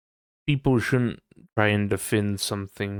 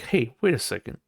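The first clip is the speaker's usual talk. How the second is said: indignant; 5 semitones higher than usual. Retold or imitated. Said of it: "you're like".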